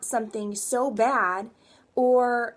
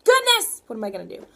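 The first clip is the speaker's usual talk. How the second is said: mock panic; 5 dB louder, faster than usual. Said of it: "cry about my situation".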